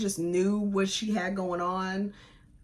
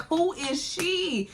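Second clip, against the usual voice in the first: puzzled question; 8 semitones higher, slower than usual. Acted. Confused heroine asks about villain.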